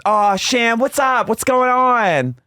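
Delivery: high, slow, hammed-up sympathetic coo; mock Gina cooing. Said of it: "she goes".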